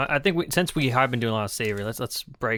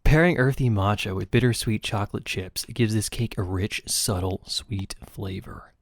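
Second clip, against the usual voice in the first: narrator voice; 2 semitones lower than usual. Pretend. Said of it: "Gotta get the narrator voice going".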